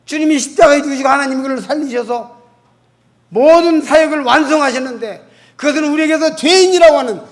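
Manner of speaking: loud, emphatic sermon delivery; fervent pulpit preaching; preaching at full force. Acted. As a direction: proclaim it to the whole congregation.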